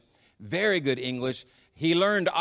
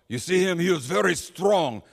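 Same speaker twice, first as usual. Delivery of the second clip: lightly acted, raised-pitch proclamation; proclaiming admirer; 4 semitones higher, 3 dB louder than usual. Everybody talks up the leader on the billboards, mildly proclaiming. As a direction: mimic the people praising the leader, a little louder. Voicing what everybody says.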